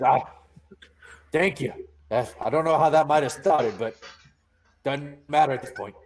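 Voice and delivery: a hint of a shaken but grateful man; lightly voiced grateful NPC. Donovan thanks the party after the fire, relieved. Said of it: "He looks at you and says".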